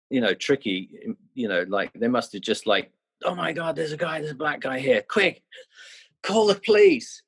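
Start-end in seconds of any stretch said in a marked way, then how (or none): 3.2-7.2 high-pitched mock panic, rising to a shriek; mock panicked local. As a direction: squeal it like a frightened onlooker calling for help. Locals panicking at black guy.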